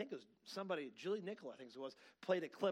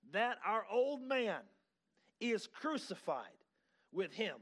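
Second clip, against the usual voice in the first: slow, emphatic pulpit reading; forceful scripture reading; 4 semitones higher, 5 dB louder, slower than usual. Acted. Preacher reading the verse to congregation, forceful and deliberate. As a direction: proclaim the verse phrase by phrase.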